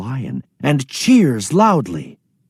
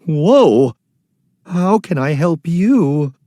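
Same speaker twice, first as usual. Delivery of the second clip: voice shaking; 5 semitones higher, 5 dB louder than usual. Acted. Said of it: "voice still shaking".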